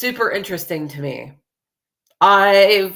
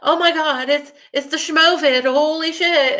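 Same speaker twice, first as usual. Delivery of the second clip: mock panic; 8 semitones higher than usual. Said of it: "everybody thinks".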